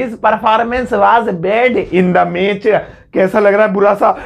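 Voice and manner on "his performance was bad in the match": very slow, word by word; slow demo sentence. Shown as a demonstration. Teacher reading an example sentence to students, very slowly. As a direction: spell it out slowly for learners. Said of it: "पहले आप कहते थे".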